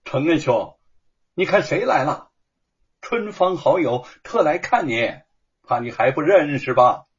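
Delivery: loud, cheerful call across the hall; calling out loudly. Acted. Shen Kun calling to his friend from the doorway, loud. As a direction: call out to your friend before entering. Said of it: "就大声地叫道".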